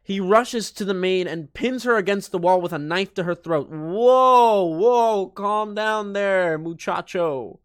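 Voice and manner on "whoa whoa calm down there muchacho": whoa. Real, not acted. Narrator reacts to Danny's attack.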